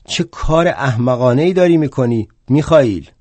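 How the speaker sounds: loud, shocked yell; shouted at him. Acted. Marx seeing Bakunin at the window, a shocked yell. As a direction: call out at him in disbelief. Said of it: "داد زدم".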